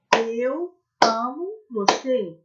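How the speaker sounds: slow, word by word with claps; slow clapped phrase. Shown as a demonstration. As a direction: spell it out beat by beat for children. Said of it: "e bater palmas".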